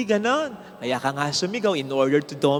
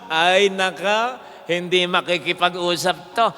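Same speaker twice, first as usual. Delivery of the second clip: imitating the shouted-at person; 3 dB louder than usual. Shouted-at person's inner reaction.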